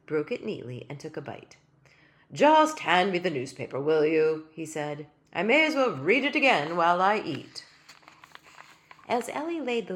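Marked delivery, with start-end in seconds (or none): 2.3-7.7 tiny king's voice. Acted. King demands newspaper.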